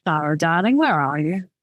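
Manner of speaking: mildly calm suitor's voice; lightly voiced, unruffled endearment. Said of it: "His voice was calm".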